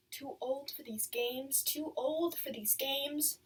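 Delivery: slow, lightly voiced echo of a friend; Agnes's remembered voice. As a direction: draw the words out like a looping refrain. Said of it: "It's Agnes's voice I hear, not my own".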